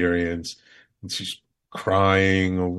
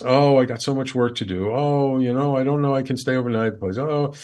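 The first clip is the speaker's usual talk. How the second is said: imitating wife's reluctance, pitched up; mock whiny-excuse voice, raised; reluctant excuses; 5 semitones higher, 3 dB louder, faster than usual. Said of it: "Resistance, resistance, resistance".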